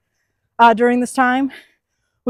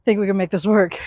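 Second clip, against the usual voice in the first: out of breath. Real, not acted. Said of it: "Still a little out of breath".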